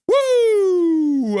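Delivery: a high, loud whoop of joy; excited whoop. Real, not acted. Streamer whooping to chat about watching, excited. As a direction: cheer it out, way up high.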